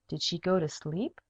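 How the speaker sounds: plain reading voice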